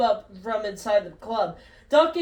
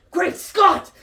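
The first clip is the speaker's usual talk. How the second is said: panicked shouting; 5 semitones higher, 4 dB louder than usual. Acted. Doc panicking, fleeing the FBI.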